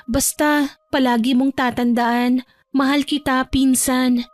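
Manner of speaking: sweetly contrite cousin, pitched a bit up; apologetic cousin. Acted. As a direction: apologise gently to an estranged cousin. (malumanay at humihinging-tawad na boses ng pinsan)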